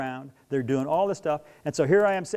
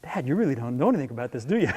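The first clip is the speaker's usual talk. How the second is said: daughter's retort; 3 semitones lower than usual. Retold or imitated. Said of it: "she kinda looks at me like".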